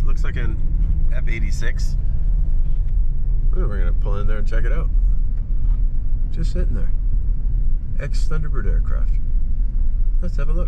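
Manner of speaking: loud over road noise; shouting over wind. Real, not acted. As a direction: raise your voice over the wind.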